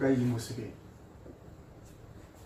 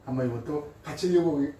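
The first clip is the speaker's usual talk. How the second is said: ordinary talk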